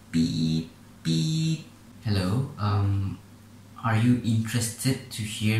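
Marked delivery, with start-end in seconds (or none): 0.1-1.7 a voice playing the answering-machine beep; imitated beep. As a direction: mimic the tone like a machine.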